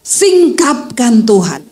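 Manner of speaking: slow, drawn-out acted plea to God; acted earnest petition, slow on each request; wife's prayer. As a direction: pray as the pleading wife, stretching the key verb. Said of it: "lalu istrinya berdoa".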